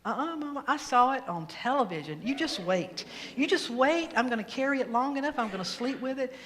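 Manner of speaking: put-on a touch of a child digging in; insistent child. Kid argues with Mama about hatching the egg, mildly insistent. Child arguing back in retold story.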